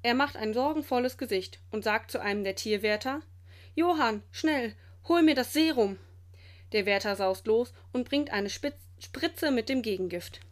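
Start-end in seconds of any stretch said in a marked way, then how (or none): 3.8-6.0 higher, emphatic command; urgent order. A narrator's reading. Director sends keeper for snake serum, urgent order. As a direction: send him off with raised urgency.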